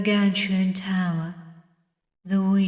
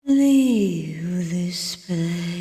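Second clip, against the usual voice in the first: slow, drawn-out command from a dream; 4 semitones lower, much slower than usual. Acted. Mysterious stranger to the dreamer, slow drawn-out command. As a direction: draw each word out slowly, commanding.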